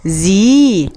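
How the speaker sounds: زي said as zi with short i; letter sound demo. Shown as a demonstration. Teacher showing children the kasra sound زي. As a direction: sound out زي crisply as zi. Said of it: "هيبقى اسمها".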